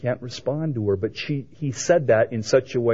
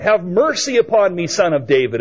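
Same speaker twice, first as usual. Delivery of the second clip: raised imitation of a crowd cry; 5 semitones higher than usual. Blind men begging Jesus for healing, crying out. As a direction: call out for mercy, higher on the first words. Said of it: "how the blind men cried out".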